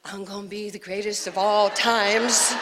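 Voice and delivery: put-on child copying a boxer's boast; imitating the champ. Ten-year-old telling her mother, imitated champ's brag. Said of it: "Why are you talking like that".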